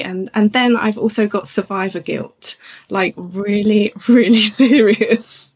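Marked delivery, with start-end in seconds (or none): 2.9-5.5 slow words breaking into a laugh; real laugh inside a drawn-out phrase. Real, not acted. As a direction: stretch the words, laughing through them. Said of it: "why I'm laughing".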